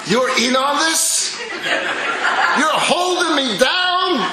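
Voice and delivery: put-on high, loud, hurt child's voice; betrayed child. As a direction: cry out like a betrayed little child. Betrayed child confronts mother.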